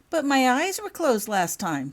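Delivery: put-on a child pushing back, drawn out; protesting. A narrator's reading. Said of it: "protested Holly".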